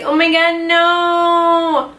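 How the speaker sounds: high, panicked mock Kevin Hart whine; Kevin Hart impression. Girl retelling her ex's alarm, doing Kevin Hart panic. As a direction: squeal it like Kevin Hart freaking out. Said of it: "you know Kevin Hart when he's like".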